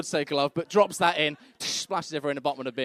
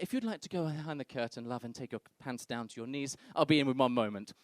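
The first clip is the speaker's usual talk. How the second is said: lightly voiced doctor, low and soft; 4 semitones lower, 5 dB quieter than usual. Doctor sending wife behind the curtain, muted and routine. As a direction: play the doctor's understated, routine instructions. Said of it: "and he's like".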